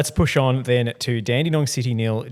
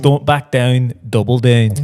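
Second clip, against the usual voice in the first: loud egging on; 8 dB louder than usual. Real, not acted.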